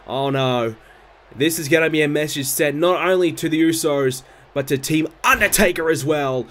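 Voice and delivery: live ringside play-by-play; wrestling commentator. Acted. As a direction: call the match like a TV announcer. Live play-by-play of game match.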